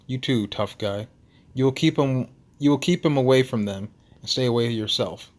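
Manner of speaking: put-on firm Russian-accented instruction; Nikolai. Russian lighthouse keeper cautioning the tough friend, Russian accent. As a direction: give orders in an amateur Russian accent. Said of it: "his Russian accent thick enough".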